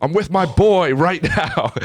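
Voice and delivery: very high, hammed-up woman's squawk; high-pitched mock holler, stretched out at the end; mock phone yelling. Acted drunk woman yelling into phone.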